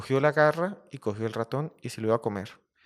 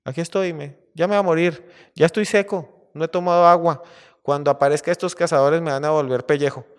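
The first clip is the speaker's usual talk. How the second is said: mildly acted lament, higher and louder; despairing lion; 5 semitones higher, 7 dB louder than usual. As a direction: wail a little as a doomed, trapped lion. Trapped lion laments his coming death.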